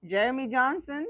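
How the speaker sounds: lifted, proud announcement of the name; strong man's name. Shown as a demonstration. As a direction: say it like a name that commands respect. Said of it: "is a strong man's name".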